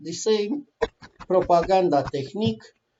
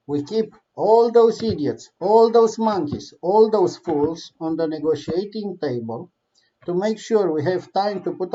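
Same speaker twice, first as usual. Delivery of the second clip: mocking Putin voice; 3 dB louder than usual. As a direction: sneer at the fools as the villain. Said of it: "voicing Putin's plan mockingly".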